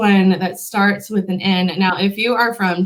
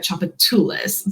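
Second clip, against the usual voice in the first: Chopatulas stressed on TOO; chop-uh-TOO-lis, late-stressed Chopatulas; stress late in word. Shown as a demonstration. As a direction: move the weight of Chopatulas down to TOO. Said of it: "move that accent way down in the word".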